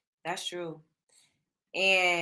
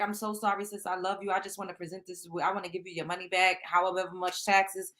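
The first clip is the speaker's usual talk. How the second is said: mock sorry apology; 3 semitones lower than usual. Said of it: "And I would be like".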